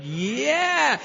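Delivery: hammed-up told-you-so; knowing yeah. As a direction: sponsor nailing the point home. Sponsor confirming.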